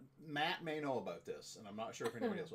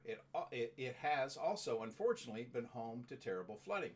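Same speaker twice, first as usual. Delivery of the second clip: informational read-out. Real, not acted. Reads out a town description.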